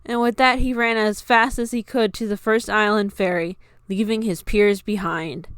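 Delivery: usual speaking voice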